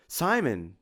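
a touch of astonishment; flabbergasted. A narrator's reading. Tim addresses Simon after his joke, mildly flabbergasted.

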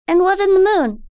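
put-on high, wondering child; a little girl full of awe; young girl voice. A narrator's reading. Daughter tells her mother about the moonlit lake, in wonder.

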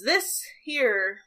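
lightly voiced rustic old farmer; farmer's voice. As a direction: mournfully show off the crime scene. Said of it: "He goes".

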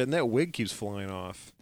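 whispered aside, breathy and hushed; joking whispered punchline. Pretend. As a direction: drop to a conspiratorial whisper. Joking aside about Supergirl's wig.

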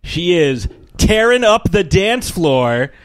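stretched, showy host introduction; announcer intro. Acted. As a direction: build it up like a game show host.

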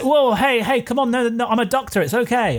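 alarmed pleading. Acted. Doctor pleads with attacking monk.

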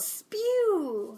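high, drawn-out echo; long swooping high cry; playful echo. Pretend. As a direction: call it back in a high comic voice. Echoing the club name playfully.

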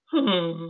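imitated pouty baby noise; pouty huff. Scolded man forced into his seat, pouty huff. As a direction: huff like a sulking little boy. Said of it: "he's pouty".

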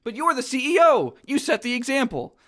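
high-pitched protesting character voice; Mike. Acted. Monster objects to his boss, high-pitched protest. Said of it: "Mike says".

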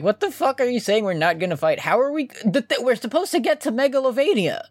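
high, incredulous outburst; exasperated. Retold or imitated. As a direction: shout in disbelief. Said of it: "Joe's like".

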